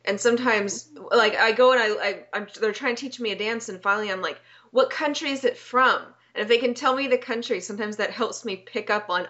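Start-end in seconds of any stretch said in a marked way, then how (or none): 4.7-6.0 higher, emphatic retold question; exasperated questioning. Dance learner finally asking the teachers, mildly exasperated.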